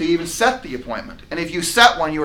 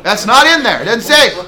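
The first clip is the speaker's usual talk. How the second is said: louder, higher insistence; emphatic; 7 semitones higher, 10 dB louder than usual. Real, not acted. Coach insisting to the class, loud and emphatic. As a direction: drive the point home.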